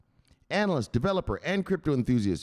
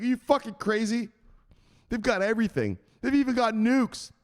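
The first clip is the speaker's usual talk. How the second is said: high mock disbelief; 12 semitones higher than usual. Zelensky disbelief to Robbie.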